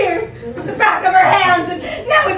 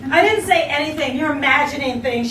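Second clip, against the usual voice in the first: aggrieved angry innocence; 3 semitones lower than usual. Acted. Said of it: "aggrieved and angry innocence".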